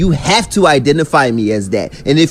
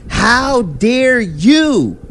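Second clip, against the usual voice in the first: much higher, slow, exaggerated indignation; high mock outrage; 9 semitones higher, much slower than usual. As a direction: leap way up in pitch and drag it like a caricature. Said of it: "I take offense to that and say".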